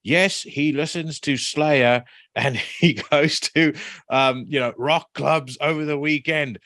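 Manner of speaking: high, slow preachy teacher voice; preacher teacher quote. Retold or imitated. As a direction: lecture the kids like a preacher. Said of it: "he looks up and he says".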